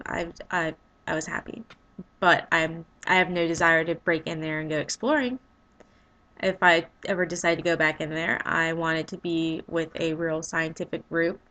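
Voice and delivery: drowsy, sleepy mumble; half asleep. Real, not acted. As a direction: talk like you're nodding off. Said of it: "I'm half asleep".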